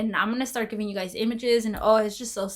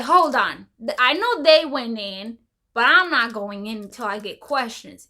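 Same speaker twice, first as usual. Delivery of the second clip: firm insistence; 4 dB louder than usual. Retold or imitated. She insists on answers.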